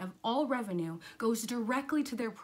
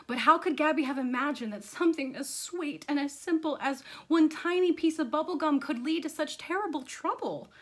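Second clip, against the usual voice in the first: put-on animated children's story reading; lively storyteller; story narration. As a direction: read it to kids with playful emphasis and suspense.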